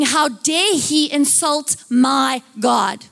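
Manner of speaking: slow, emphatic indignant demand; mock-outraged David, drawn out; acted outrage. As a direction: punch it word by word, affronted. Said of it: "He is outraged".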